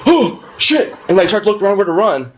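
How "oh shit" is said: high squeaky alarm; sudden panic jumping up in pitch; startled yelp. Retold or imitated. Drunk buddy spotting the cop cars, high startled yelp.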